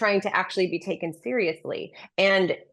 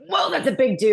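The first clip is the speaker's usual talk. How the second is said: surprised; 8 semitones higher, 5 dB louder than usual. Retold or imitated. Startled at seeing Travis Kelce.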